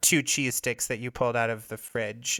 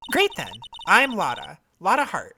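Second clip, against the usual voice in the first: Southern photographer; 4 semitones higher than usual. Acted. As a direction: scold them like an offended country gal. Voices Lotta.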